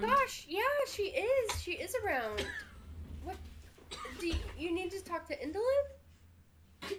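high, surprised goblin; squeaky startled little goblin. Acted.

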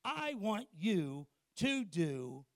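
God speaking. Acted. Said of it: "what if God spoke to you and said".

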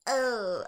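caught out. Retold or imitated. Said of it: "I was like".

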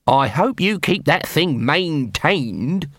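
slow, lightly put-on corporal voice; sly corporal. Nobby needles the armourer about the siege weapon, mock concern.

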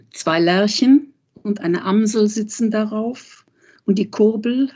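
measured, deliberate recitation of a German poem; poem reading. Acted. Reading the Klee poem aloud to the interviewer, measured recitation.

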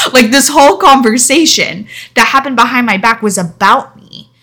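incredulous laughing rant; laughing in disbelief. Real, not acted. Incredulous laugh at friend's accusation.

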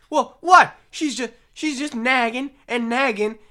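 high, loud indignant comic rant; Bill Burr impression. Comedian doing Bill Burr on stage, loud indignant rant. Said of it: "I do a Bill Burr impression".

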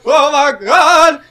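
drawn-out laughing gasp of shock; mock shock. Watching a friend grab a knife, slow shocked laugh. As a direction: stretch it out like you can't believe it.

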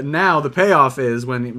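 ordinary delivery

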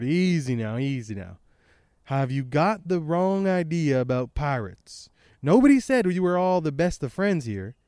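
pirate reading with a twang; Blackbeard. Acted. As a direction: put a light twang on it. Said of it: "I don't know why I'm doing this, like, tang-, twang".

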